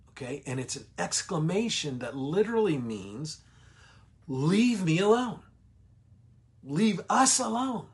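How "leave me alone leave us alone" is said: demon shriek. Retold or imitated. Teacher voicing the demon shrieking at Jesus, high and loud. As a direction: shriek at him to keep away. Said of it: "this shriek by this, uh, demon".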